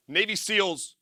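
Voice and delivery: ordinary talk, nothing marked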